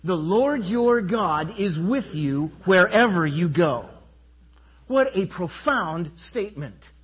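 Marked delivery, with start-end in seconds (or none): 0.0-3.9 loud group recitation. Shown as a demonstration. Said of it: "Would you say that with me".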